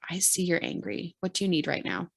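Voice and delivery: acted gentle concern; supportive. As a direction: offer support gently, voice dropped. Models a supportive reply to anger.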